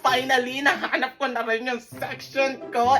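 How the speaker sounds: eager, drawn-out self-introduction; over-the-top keen new student; gushing transferee. Acted. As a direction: stretch it out, showing off to the teacher. Gushing new transferee answers the teacher.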